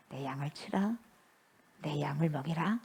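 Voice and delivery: very soft, low near-whisper; hushed charge. Acted. Jesus entrusting his sheep to Peter, hushed. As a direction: entrust it gently, almost under the breath.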